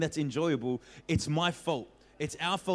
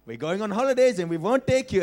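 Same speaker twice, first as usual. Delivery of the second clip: parents threatening; 5 semitones higher, 8 dB louder than usual. Retold or imitated. Parents threatening kids in story.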